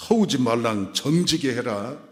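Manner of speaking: lightly imitated Jeju dialect; a hint of Jeju accent. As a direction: say it as a Jeju local would. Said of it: "제주도 말로 하면".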